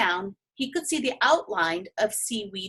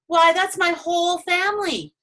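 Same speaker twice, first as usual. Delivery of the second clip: high, anxious pleading; frantic about his family; a young dragon near panic; distressed; 5 semitones higher, 3 dB louder than usual. Acted.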